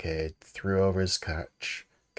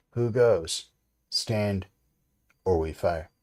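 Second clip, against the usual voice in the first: hailing shout; 2 semitones higher, 6 dB louder, slower than usual. A narrator's reading. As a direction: bark the challenge across the stockade. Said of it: "They hailed the buccaneer".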